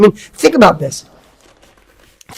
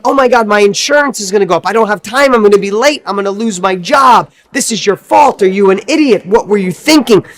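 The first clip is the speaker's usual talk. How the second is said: higher, rushed frantic rant at the other driver; panicked blame; 3 semitones higher than usual. Retold or imitated. Angry driver blaming the other after a crash, frantic raised rant. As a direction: spill out blame and panic, fast at first. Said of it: "they're going".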